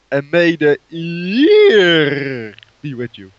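solemn movie line. Acted. Parodies Star Wars farewell line.

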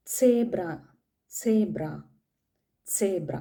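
സേബ്ര said as German "Zebra" with a ts sound and a long e; German pronunciation. Shown as a demonstration. Teacher drilling the German word Zebra. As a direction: say സേബ്ര, not സീബ്ര. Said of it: "സേബ്ര എന്ന് പറഞ്ഞാൽ സീബ്ര".

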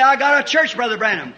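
puffed-up member showing off to the preacher; boastful churchgoer. Acted. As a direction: brag about your big fine church. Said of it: "You say".

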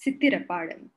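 measured, deliberate poetry reading; poem recital. Acted. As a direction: read it like a spoken-word poem, each phrase set apart. Reads her Tamil poem aloud.

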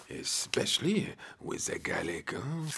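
sly whispered aside. Acted. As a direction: drop into a hushed, secretive whisper. Gardener's sly aside about snails.

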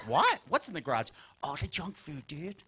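put-on very soft, sneaky kids; hushed whisper. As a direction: plot quietly in the dark.

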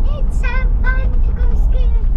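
loud, high, thrilled shout; bursting with excitement about skiing. Real, not acted. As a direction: call it out with real excitement.

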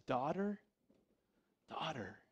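compassionate. Acted. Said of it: "the compassion in Jesus' voice".

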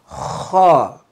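Kha: rasping ch from the back of the throat; Kha like clearing your throat; Arabic kha. Shown as a demonstration. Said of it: "like you are cleaning your truth".

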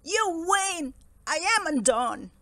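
loud, high, defeated wail; blubbering. Acted. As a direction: melodramatic tearful surrender. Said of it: "he blubbered".

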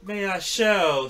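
put-on slow, high, booming old tree; Treebeard voice. Ent reading to the hobbits, slow and booming. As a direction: draw it out like an ancient ent. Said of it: "said Treebeard".

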